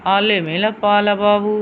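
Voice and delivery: lisping sweet talk to a pet. Real, not acted. Owner cooing baby talk to her dog Alex, lisping and sweet.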